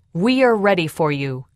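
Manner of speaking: loud, defiant challenge; shouting. A narrator's reading. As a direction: call out boldly to the attackers. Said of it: "Joseph finally shouted".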